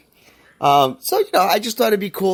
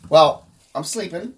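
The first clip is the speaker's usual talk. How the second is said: ordinary talk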